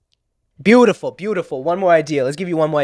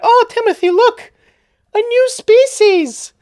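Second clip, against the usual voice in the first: very high, loud mock white-guy voice, drawn out at the end; excited white guy; 6 dB louder, slower than usual. White camper alerts Timothy to a Bigfoot sighting, high mock-excited voice. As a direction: squeal it like an awestruck dorky camper.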